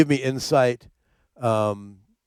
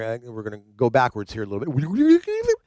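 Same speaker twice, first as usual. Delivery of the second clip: rising rewind whine; tape rewinding; 2 semitones lower than usual. Pretend. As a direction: make a tape rewind noise. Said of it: "That's my rewind noise".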